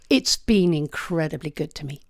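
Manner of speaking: a whispered, moved admission; getting soppy. Real, not acted. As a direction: near tears, barely voiced. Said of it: "I'll get soppy".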